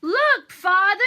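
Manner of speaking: high, loud, thrilled; excited exclaim. Acted. Hansel showing his father the gold, high excited exclaim. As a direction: burst out with the news. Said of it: "Hansel exclaimed".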